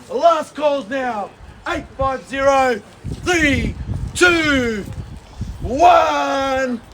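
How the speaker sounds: slow drawn countdown; auction countdown. Real, not acted. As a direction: count down to the hammer. Countdown to sale.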